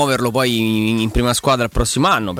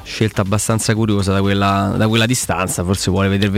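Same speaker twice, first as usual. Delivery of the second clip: live play-by-play. Acted. Live free kick commentary.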